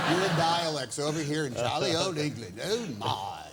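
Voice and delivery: hammed-up jolly old English accent; mock English accent. Hanks teases his British host about dialects, mock English accent. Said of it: "That's your best accent".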